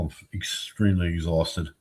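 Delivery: tired. Real, not acted. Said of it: "I'm sorry for yawning".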